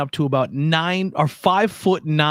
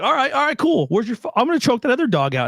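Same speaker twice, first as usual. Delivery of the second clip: mock kangaroo voice; 9 semitones higher, faster than usual. Voicing the kangaroo, joking.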